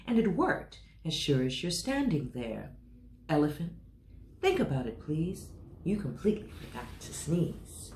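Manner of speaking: lightly voiced teasing mouse; cheeky little mouse. Mouse teasing the scared elephant, lightly cheeky. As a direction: tease the big elephant gently.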